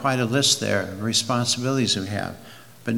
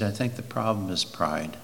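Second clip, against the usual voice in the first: quietly, a touch humble, softer; 6 semitones lower, 10 dB quieter than usual. Retold or imitated. Preacher quoting a humble pastor, soft and humble. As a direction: say it softly and humbly, no arrogance. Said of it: "He said it very humbly".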